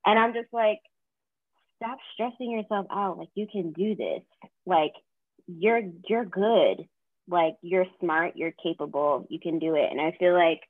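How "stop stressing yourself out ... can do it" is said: lightly acted pep talk to oneself; reassuring inner voice, measured and emphatic; encouraging self-talk. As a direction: coach yourself along, stretching the praise. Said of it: "like, encouraging myself".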